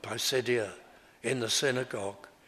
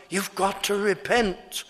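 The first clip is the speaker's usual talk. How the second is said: higher, louder demand to repent; preacher voicing Paul's loud command; forceful demand; 5 semitones higher, 3 dB louder than usual. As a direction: press the word repent hard. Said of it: "And his great emphasis is".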